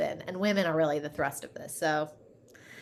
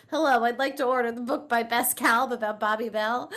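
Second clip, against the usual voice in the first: lightly voiced grandpa, a bit higher, polite; grandpa on the phone; 5 semitones higher, 4 dB louder than usual. Grandfather phoning bookstores to order, lightly voiced. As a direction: play a polite old man phoning a store. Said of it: "and going".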